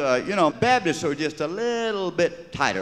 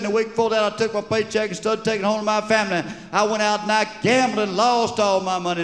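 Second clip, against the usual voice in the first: confessing sinner; 9 semitones higher than usual. Acted. Congregant confessing in church.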